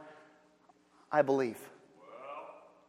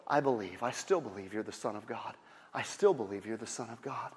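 quiet tearful Martha; 4 dB quieter than usual. Acted.

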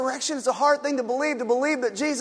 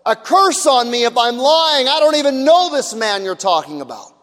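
forceful oath; 2 semitones higher, 6 dB louder than usual. Retold or imitated. Peter swears with authority.

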